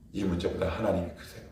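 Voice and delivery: normal talking voice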